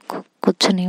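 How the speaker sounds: a nervous, caught-out stammer; stammering nervously. Acted. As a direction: falter on the first word, then recover. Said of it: "अक्ष की आवाज़ थोड़ी लड़खड़ाने लगती है".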